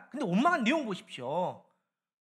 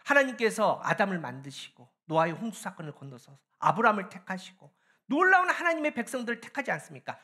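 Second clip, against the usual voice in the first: ordinary talk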